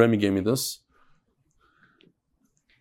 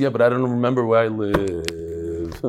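put-on old man; 8 semitones lower than usual. Punchline of old man joke.

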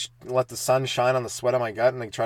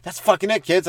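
mock rage; 7 semitones higher, 5 dB louder than usual. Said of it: "So I'm like".

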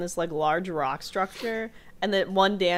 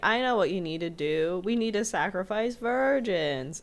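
mock radio host; 3 semitones higher than usual. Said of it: "he gets on the mic and he, like, says".

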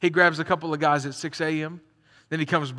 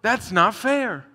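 mock protest; 3 semitones higher, 4 dB louder, much slower than usual. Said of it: "we all read this and go".

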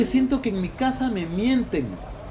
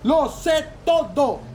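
higher, emphatic practice shout; more forceful; 4 semitones higher than usual. Acted. Paco rehearses confronting his wife, forceful. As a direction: punch each word like a man. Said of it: "Un poco más fuerte".

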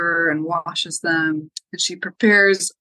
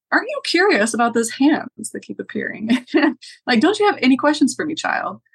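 teasing laugh; 6 semitones higher than usual. Acted. Baba Yaga goading, laughing.

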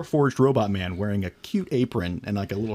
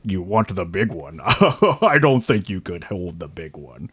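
teasing strongman; 3 semitones lower than usual. Acted.

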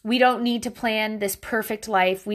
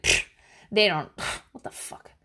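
scoffing; 3 dB quieter than usual. Retold or imitated. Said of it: "I'm an asshole because I was like".

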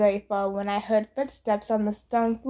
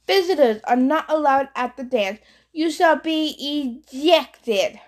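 put-on French accent; 4 semitones higher than usual. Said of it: "He had an accent, French maybe".

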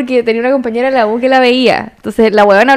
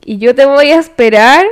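recitado. Shown as a demonstration. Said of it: "yo estoy recitando".

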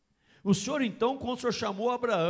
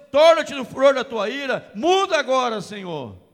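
loud, shouted, higher fervent climax; preaching at full force; 3 semitones higher, 9 dB louder than usual. Acted. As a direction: shout it like the peak of the sermon. (pregação no auge, aos gritos)

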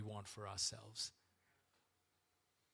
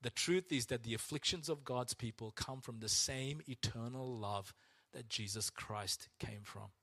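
slow reading. Shown as a demonstration. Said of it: "Listen to this line".

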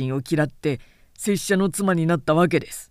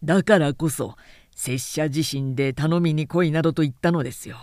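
stiff formal samurai. Acted. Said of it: "あざけるように鼻で笑った".

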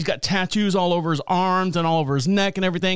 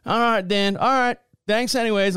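stranded guy voice; 5 semitones higher than usual. Retold or imitated. The guy giving up.

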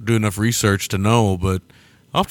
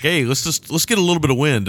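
higher, casual suggestion; imagined film crew; 5 semitones higher than usual. Retold or imitated. Imagined film crew suggesting some wind, light casual pitch. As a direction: pitch it lightly as a small idea.

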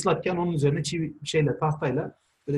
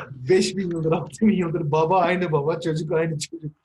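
after laughing hard. Real, not acted. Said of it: "Çok güldüm ya".

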